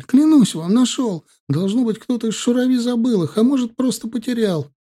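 put-on a terrified boy swearing to a gunman; frantic pleading. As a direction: beg for your father's life, high and urgent.

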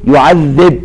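يعذب ending on a still ب with no vowel; jussive yuadhdhib. Shown as a demonstration. Teacher shows Al-Susi reading يعذب in jussive. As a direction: stop يعذب on a silent ba. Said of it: "بالجزم، فيقول".

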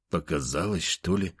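whispering. Acted. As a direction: say it under your breath. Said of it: "прошептал я".

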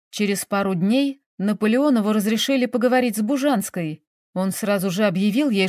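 plain reading voice

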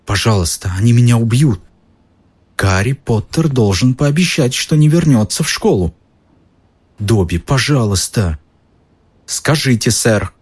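high, desperate elf; frantic begging elf; house elf voice. Acted. Dobby begs desperately.

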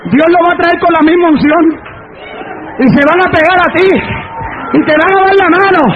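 declaimed phrases with long pauses; forceful preaching. Acted. Preacher promising the church that rebels will join, forceful preaching. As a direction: proclaim each phrase and let it ring.

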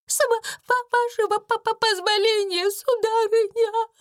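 очень высокий, дрожащий, заикающийся голосок; лепетать от страха; испуганно заикаясь. A narrator's reading. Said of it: "заикаясь, пробормотала она". (Бекки заикается перед хозяйкой)

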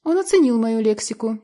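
ordinary delivery

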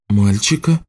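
puzzled woman, questioning rise; mild bewilderment. A narrator's reading. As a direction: query it, a touch confused. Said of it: "Женщина растерялась".

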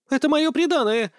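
high shrill yelp of outrage; взвизгнула; shrieking. A narrator's reading. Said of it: "взвизгнула Артина".

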